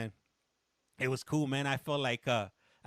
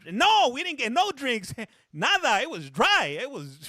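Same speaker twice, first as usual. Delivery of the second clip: louder, higher, slowed "No, we didn't get no drinks"; louder mock-outraged gripe to chat; exasperated complaint; 7 semitones higher, 6 dB louder than usual. Real, not acted. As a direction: vent the frustration with a laugh.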